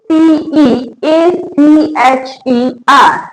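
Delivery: slow letter-by-letter spelling; name each letter separately, drawn out; spelled out slowly. Shown as a demonstration. Teacher spelling a word for learners, slowly letter by letter.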